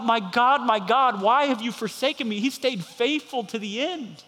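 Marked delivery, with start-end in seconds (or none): 0.0-2.4 calling out. Retold or imitated. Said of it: "and calling out".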